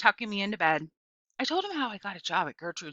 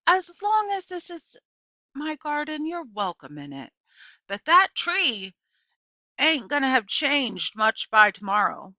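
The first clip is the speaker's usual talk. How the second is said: neighbour lady voiced much higher and louder, settling down; neighbour lady's voice; 7 semitones higher, 7 dB louder than usual. A narrator's reading. Neighbour welcoming the girl to her garden, voiced high. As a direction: open high and loud as the neighbour, then ease back.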